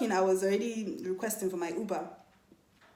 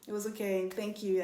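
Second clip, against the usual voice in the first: passive aggressive. Retold or imitated. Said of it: "I can give passive aggression sometimes".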